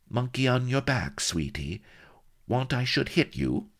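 lightly voiced brassy confidante; a hint of a tough little maid offering help; worldly attendant. A narrator's reading. Attendant comforting the princess, a lightly voiced brassy maid.

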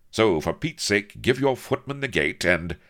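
high, loud, urgent pleading; impatient. A narrator's reading. Captain pressing her to dismiss the footman, impatient. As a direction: urge it on with rising exasperation.

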